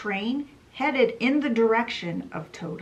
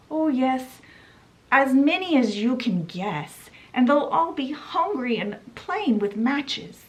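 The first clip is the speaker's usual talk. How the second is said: higher, put-on old washerwoman voice; Toad as washerwoman; 3 semitones higher than usual. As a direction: play a meek poor washerwoman.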